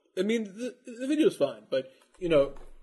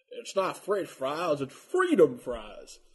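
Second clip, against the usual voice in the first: slow mock patriot; much slower than usual. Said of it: "you know, people".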